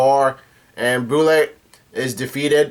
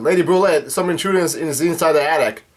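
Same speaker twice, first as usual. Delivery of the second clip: mock alarmed yell, raised pitch; Diesel; 3 semitones higher than usual. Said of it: "Diesel yells out".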